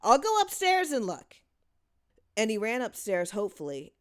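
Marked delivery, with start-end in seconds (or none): 0.0-1.4 much higher, louder eager cry; cried. A narrator's reading. Boy offering to search upstairs, eager cry. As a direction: call out, keen to help. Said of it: "one boy cried".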